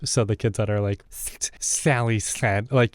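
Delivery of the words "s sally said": "S-, Sally said" with air spilling sideways, slow; slushy lateral lisp. Shown as a demonstration. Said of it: "a lateral lisp".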